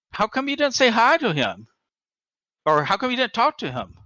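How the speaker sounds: imitated tour guide's pointed question; retold puzzled questioning. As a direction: ask as if baffled by the omission.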